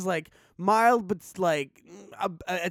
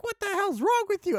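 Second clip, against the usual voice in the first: disgusted teacher; 13 semitones higher than usual. Retold or imitated. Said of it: "She's like".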